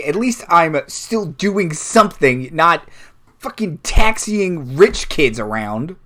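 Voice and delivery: mildly heated insult in character; scornful jab. Acted. Luffy belittling her rival's job, scornful jab.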